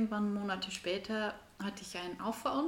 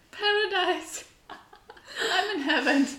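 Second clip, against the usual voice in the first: high, loud, gleeful fly voice; buzzy housefly; 10 semitones higher, 8 dB louder, slower than usual. Pretend. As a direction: squeal like a fly in heaven. Voicing the fly on food.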